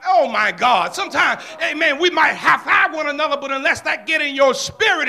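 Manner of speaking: booming Sunday sermon voice; full-force preaching. Acted. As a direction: preach it out to the whole congregation.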